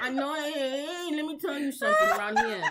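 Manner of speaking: laughing, put-on Chicano cholo voice; Chicano gangster accent. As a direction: lay down the prison rules in a Chicano accent. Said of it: "You sound like the guy on".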